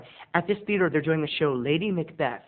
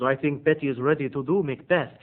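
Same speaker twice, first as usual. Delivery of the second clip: stiff, hammed-up dubbed line; bad dubbing; 3 semitones lower than usual. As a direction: read it like a clumsy movie dub. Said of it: "they say in bad dubbing".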